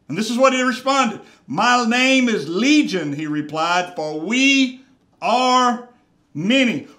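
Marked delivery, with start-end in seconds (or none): 1.5-3.1 loud, slowed, ominous declaration; demon's reply. Acted. Demon answering Jesus, loud ominous drawl. 3.9-6.9 loud, slowed, ominous declaration; demon's reply. Acted. Demon answering Jesus, loud ominous drawl.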